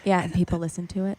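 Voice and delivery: soft whisper, joining the demo; ASMR whisper. Shown as a demonstration. Friend explaining that people listen to ASMR, whispered. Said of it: "when you talk like this".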